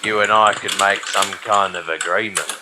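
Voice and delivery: low, quiet gangster threat; menacing thug. Acted. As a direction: lean in and threaten softly.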